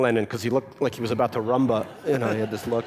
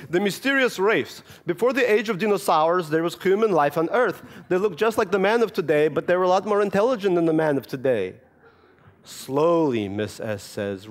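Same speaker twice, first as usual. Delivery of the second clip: put-on higher, earnest Russian-accented reading; a little Russian boy reading his story; Russian child reading aloud; 4 semitones higher than usual. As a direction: read like a proud boy with a thick accent.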